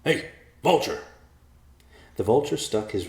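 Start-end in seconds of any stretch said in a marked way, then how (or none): 0.0-1.0 loud, high call up to the bird. Acted. Riverpaw hailing the vulture in a tree, loud call. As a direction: shout up to the perch. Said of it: "Riverpaw called".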